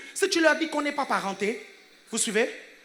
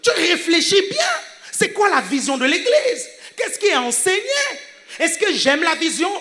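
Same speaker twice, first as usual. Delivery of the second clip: raised, urgent preacher's voice; forceful preaching; 3 semitones higher, 4 dB louder than usual. Real, not acted. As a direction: press the questions on the congregation. (prédication énergique)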